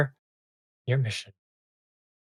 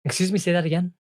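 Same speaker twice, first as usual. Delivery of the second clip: disbelieving ice fairy; 3 semitones higher, 6 dB louder than usual. Acted. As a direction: ask in polite disbelief, pitched up. Fairy disbelieves what she hears.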